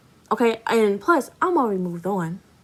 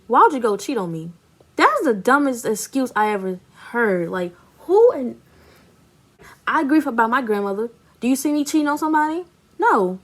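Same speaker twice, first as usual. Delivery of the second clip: indignant rant; 3 semitones higher than usual. Real, not acted. Ranting about his excuse.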